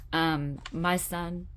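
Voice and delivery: choking up, voice catching on the words; fighting back real tears; real emotion breaking through quiet halting speech; tearful. Real, not acted. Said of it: "I don't know why I'm getting so emotional right now".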